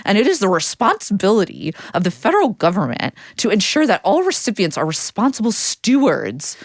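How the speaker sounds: lightly nerdy reading voice; nerd voice. Acted. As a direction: read it like a prim little nerd. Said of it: "your nerd voice".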